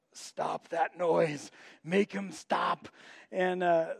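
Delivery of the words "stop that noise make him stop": slow, drawn-out fed-up grumble; mock the irritated diners, dragging the words out; annoyed diners. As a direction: restaurant crowd muttering at the tantrum, slow and fed up. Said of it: "everyone in the restaurant's just kinda sitting there going".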